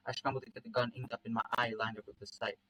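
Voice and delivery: understated first-person storytelling; story narration. A narrator's reading. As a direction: read the action like an audiobook.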